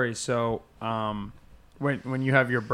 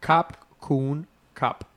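slow careful repeat; much slower than usual. Shown as a demonstration. Learner repeats Thai slowly.

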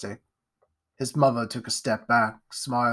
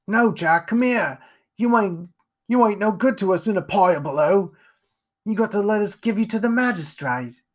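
higher, louder rough mum pleading; desperate mother; 8 semitones higher, 5 dB louder than usual. Acted. Mother calling Jack back from the window, greedy plea. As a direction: plead greedily to stop him.

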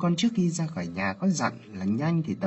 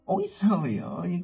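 lament; 8 semitones higher than usual. Acted. Aunt lamenting niece's shame.

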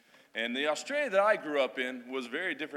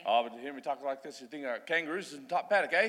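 put-on old Australian slang. Shown as a demonstration. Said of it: "I'm gonna speak the old, uh, old Australian".

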